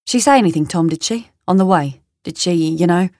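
London man's halting questions; London accent. Acted. London man asks Tom what she said, London accent. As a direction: probe casually in a London accent. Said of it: "That's the London man".

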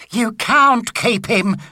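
lightly voiced exasperated wife; explaining wife. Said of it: "explained Missus Tibblethwaite".

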